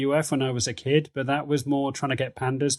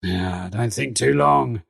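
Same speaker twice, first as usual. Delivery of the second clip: slow, lightly voiced warning; Nuggets's voice; 2 semitones lower, slower than usual. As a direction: draw the words out in character. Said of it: "as he says".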